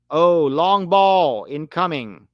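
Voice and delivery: excited call. Real, not acted. Commentating a long ball.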